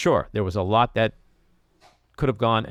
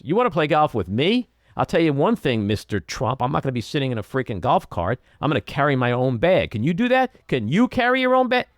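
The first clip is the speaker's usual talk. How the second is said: forceful challenge; 3 semitones higher than usual. Retold or imitated. Commentator mimicking Biden daring Trump, forceful and rising. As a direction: throw the golf challenge right in his face. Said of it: "If he said it like that instead of".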